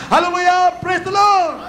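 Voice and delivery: high, shouted praise; rallying preacher's cry of praise; loud shout. Shown as a demonstration. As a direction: shout it out to rouse the congregation. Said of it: "sumigaw ng malakas".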